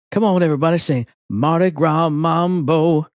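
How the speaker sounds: rally the crowd with a Southern lilt; lightly imitated Southern belle vocalist; Southern singer. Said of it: "she has a Southern accent".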